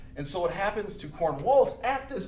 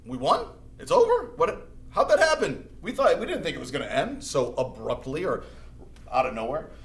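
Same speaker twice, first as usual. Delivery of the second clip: stunned colonists. Retold or imitated. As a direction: ham up disbelief at sudden victory. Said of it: "people are like".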